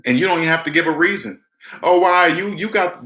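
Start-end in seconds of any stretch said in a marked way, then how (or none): 1.8-3.0 higher, pleading mock voice; mocking a pushy relative. Relatives in debt begging for a loan, mock pleading. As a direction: whine like someone wanting a loan. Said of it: "this is what they say".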